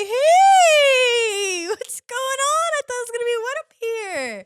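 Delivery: high, drawn-out worm greeting; cartoon worm. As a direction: squeal a long, high hello as a worm. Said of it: "the worms are just like".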